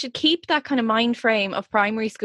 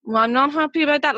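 mock scolding parent; faster than usual. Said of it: "what you'd say to a child you were kind of reprimanding".

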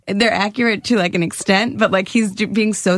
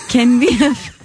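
slow, halting mock South Korean accent; tentative South Korean impression; 3 semitones higher, slower than usual. Shown as a demonstration. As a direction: attempt Korean-accented English, word by word. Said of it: "a South Korean".

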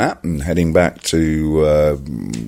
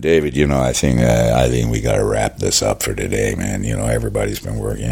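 low, lightly American voice; first assistant director; 7 semitones lower than usual. Acted. Assistant telling director to wrap, low-pitched and reasoning. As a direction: drop the pitch and reason with the boss. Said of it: "that's when the first stepped in".

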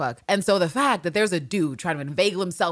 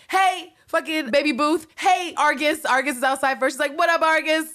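high, breezy sing-song greetings; full jaunt mode; 11 semitones higher, 4 dB louder than usual. Retold or imitated. Anne greeting her household in jaunty high spirits. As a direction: greet everyone like the day is perfect. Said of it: "she is in full jaunt mode".

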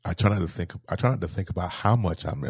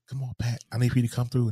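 higher-pitched imitation of relatives' plea; mildly pleading, raised pitch; retold urging; 6 semitones higher than usual. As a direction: urge her back, voice lifted. Relatives urging unconscious mother.

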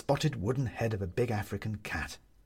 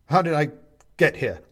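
bewildered; 5 semitones higher, 7 dB louder than usual. A narrator's reading. Benedict confused, frightened.

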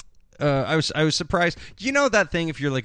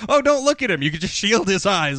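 mock gentle; 6 semitones higher, 3 dB louder than usual.

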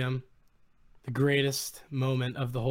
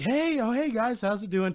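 imitated high-pitched hello, easing down; upbeat greeting; 8 semitones higher than usual. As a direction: greet fans back in a raised voice. Retold greeting back from Doug.

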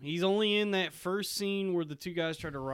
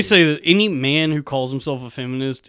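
mock yell; 3 semitones lower, 14 dB louder than usual. Mock feminist rant, yelling.

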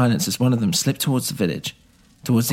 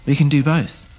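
raised voice to be heard; a little louder; 4 semitones higher, 3 dB louder than usual. Acted. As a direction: Hemero breaks into the argument a little louder. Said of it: "Hemero said a little louder".

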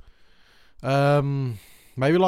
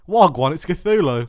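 slangy Cthulhu voice; 3 semitones higher, 7 dB louder, slower than usual. Pretend.

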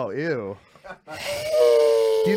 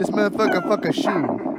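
excited cheering. Real, not acted. Cheering on mating turtle.

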